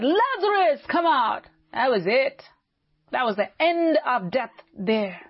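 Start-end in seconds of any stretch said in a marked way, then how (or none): 0.0-1.4 raised-pitch call into a tomb; retold command, called out without shouting; crying out. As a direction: call him forth, pitched up on the name. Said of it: "he cried out to the tomb".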